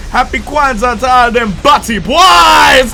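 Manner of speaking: slow, loud mock Jamaican shout; hammed-up Caribbean accent; quoted patois line. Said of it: "I will never forget that".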